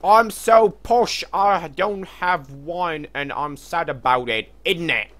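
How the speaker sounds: very high, slow, loud fake British posh voice; mock posh British accent. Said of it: "I want to make the worst British accent ever".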